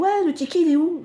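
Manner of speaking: sharp high angry question; angry demand. Retold or imitated. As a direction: demand it like an irritated guest. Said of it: "mais il prend en colère".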